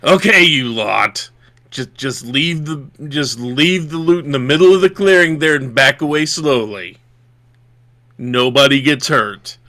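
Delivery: a hint of a gruff robber making demands; gruff bandit. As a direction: give orders with a touch of gruff menace. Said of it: "you hear a very gruff voice".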